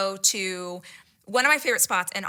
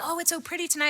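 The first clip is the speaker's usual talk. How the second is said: high, light small talk; imitating awkward chatter; nervous babbling; 6 semitones higher, 4 dB quieter, faster than usual. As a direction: babble it airily. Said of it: "I just start babbling".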